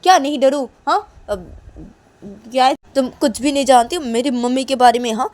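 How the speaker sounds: loud, high furious yelling; angry shouting girl. Acted. Kajal yelling at her friend for telling, loud and furious. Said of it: "काजल रेशमा की तरफ देखते बोलती".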